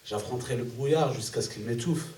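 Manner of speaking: measured verse, a pause after each line; poem recitation. Acted. Poet reciting own poem to the audience, measured recitation. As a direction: recite it line by line in steady cadence.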